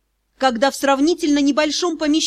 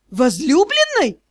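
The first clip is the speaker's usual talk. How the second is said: mocking drawl; 3 semitones higher, slower than usual. A narrator's reading. Юрао taunts the magister about the beloved, mocking. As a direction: stretch the word in a derisive query. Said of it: "издеваясь, протянул Юрао".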